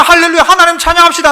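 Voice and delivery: re-enacted preacher's greeting; rallying worship call. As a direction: call the congregation to respond. Acts out his own call to worship.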